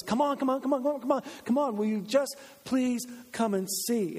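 high, insistent come on, slowing into a plea; pleading urgency. Acted. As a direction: tug at a friend's sleeve, then beg. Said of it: "They've got a, a passion".

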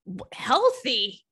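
stunned, half-whispered question; incredulous whisper. Real, not acted. Host reacting to an ex's odd text, in a slow disbelieving whisper.

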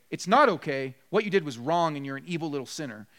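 hammed-up parent scolding; mock scolding. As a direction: play the harsh parent for laughs. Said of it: "you don't just say".

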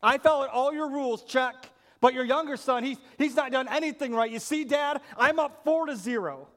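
lightly voiced smug older son ticking off points; a hint of a self-righteous son listing his record; older son keeping score. Older son lecturing his dad about the score, mildly smug. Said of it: "He goes".

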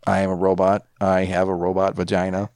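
flat robot voice; toy robot voice. Pretend. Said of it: "say the robot vagina line".

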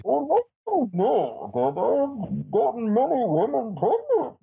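very high-pitched masked villain voice; exaggerated theatrical villain; Bane impression. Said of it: "calling me as Bane".

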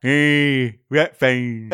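lightly voiced Essex puppet rat; a hint of a cheeky TV rat; Roland Rat voice. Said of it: "How did Roland Rat say?".

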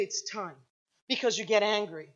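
soft, low divine words; hushed voice of the Lord. Retold or imitated. The Lord speaking to her, hushed and soft. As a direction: let it drop almost to a hush.

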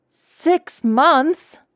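stunned, as if it can't be true; shocked disbelief. Acted. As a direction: pitch leaps high in disbelief. Shocked inner echo of dad.

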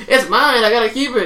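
cling to the beer; whiny shoplifter. Retold or imitated. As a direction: shoplifter pleading to keep the beer. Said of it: "She's like".

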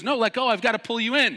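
high loud urgent order; yelling instructor. Retold or imitated. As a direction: shout the instruction over water.

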